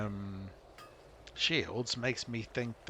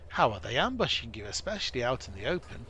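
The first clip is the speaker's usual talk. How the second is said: normal talking voice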